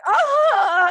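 high, drawn-out "oh"; mock "oh". Her tearful reaction, retold.

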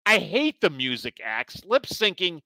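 lightly voiced grumpy old man; old man rant. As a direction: grumble like a cranky old man. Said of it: "Let's go to your old man rant".

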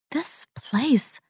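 breathless whisper. A narrator's reading. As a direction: barely voice it, afraid. Unvoiced whisper heard.

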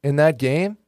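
upbeat sponsor ad read. Acted. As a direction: pitch it like a radio spot. Host reads sponsor ad.

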